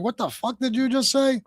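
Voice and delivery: mock a caller in a hillbilly accent. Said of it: "With that hillbilly accent".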